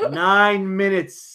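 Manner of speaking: slow, laughing through it. Real, not acted. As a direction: drag it out while laughing.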